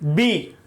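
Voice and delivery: "बी" said low, lips touching before the sound; lips-touch bee. Shown as a demonstration. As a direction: show the lips closing on "बी". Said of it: "lip क्या हो गया? टच हो गया". (होंठ छूकर "बी")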